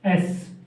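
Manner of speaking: "एस" with a hissed final s; pronunciation demo. Shown as a demonstration. Teacher answers how it is pronounced, pronunciation demo. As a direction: sound out "एस" on its own. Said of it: "pronunciation क्या होगी इसकी?".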